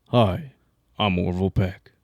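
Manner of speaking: low crooning self-introduction; deep impression of a singer. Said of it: "his voice is very deep".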